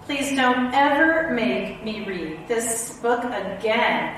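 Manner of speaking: mock exhaustion. Reader exhausted after silly sounds.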